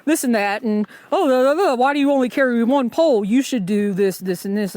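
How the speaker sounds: hammed-up imitation of a preachy hiker; mocking the gearhead. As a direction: parody a pushy gear expert lecturing. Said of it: "I do have a gearhead around me".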